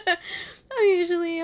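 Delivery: self-mocking giggle breaking into the words; laughing. Real, not acted. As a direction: crack up at yourself mid-sentence. Laughing at her own rambling.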